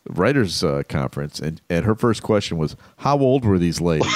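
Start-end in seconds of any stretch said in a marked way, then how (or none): 3.0-4.2 shouting. Retold or imitated. Wife's question, retold.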